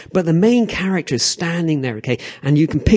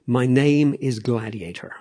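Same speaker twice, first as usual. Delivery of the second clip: gladiator; 2 semitones lower, slower than usual. Acted. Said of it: "This guy responds, he goes".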